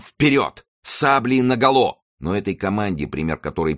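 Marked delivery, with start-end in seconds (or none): 0.0-2.0 high, exhilarated battle command; rallying shout. A narrator's reading. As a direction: call the charge to your troops. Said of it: "крикнул тоже король, опьянённый этим видом". (воодушевлённый выкрик команды)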